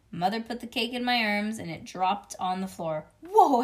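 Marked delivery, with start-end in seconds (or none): 3.2-3.6 loud, high exclamation of surprise; startled. A narrator's reading. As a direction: blurt it out loudly, startled by the weight. Startled by heavy cake dropping.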